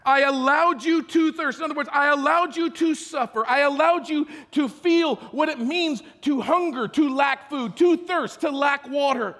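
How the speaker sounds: God speaking. Acted. God speaking to the Exodus generation, loud proclamation. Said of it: "he says".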